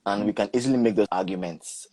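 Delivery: "easily" given deliberate emphasis; stress on EASILY. Real, not acted. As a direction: lean on the word "easily". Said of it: "I stress the word easily".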